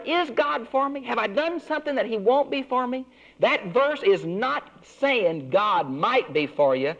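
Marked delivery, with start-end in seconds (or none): 0.1-3.1 anxious self-doubt. Retold or imitated. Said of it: "And I wonder".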